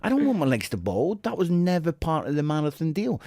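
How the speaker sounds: ordinary talk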